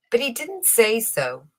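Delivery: ordinary delivery, nothing marked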